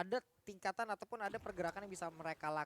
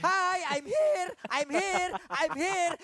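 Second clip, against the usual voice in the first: lightly mimicked game voice line; hero voice line; 10 semitones higher, 11 dB louder, much slower than usual. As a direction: quote the hero's line, half yelling. (tirukan suara hero dengan heboh)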